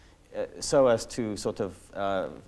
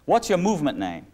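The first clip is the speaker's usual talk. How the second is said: higher, louder demanding question; radio interrogator; 6 semitones higher, 5 dB louder than usual. Retold or imitated. Israeli broadcaster interrogating the captured guerrilla, higher and louder demand. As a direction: press the prisoner like a radio interrogator. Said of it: "Israeli broadcaster".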